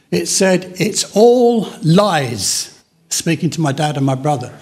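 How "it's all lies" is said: slow, lightly voiced guttural spirit. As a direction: draw it out, imitating a possessing voice. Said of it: "it said in a guttural voice".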